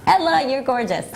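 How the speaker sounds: high, laughing flirty croon; mock flirt. Teasing Ella, continuing the creepy flirt. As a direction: tease it like a cheesy suitor.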